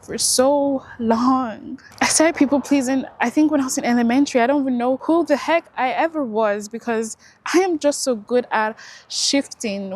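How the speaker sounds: holding back tears while telling it; getting emotional, about to cry; near tears. Real, not acted. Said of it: "about getting emotional and about to cry".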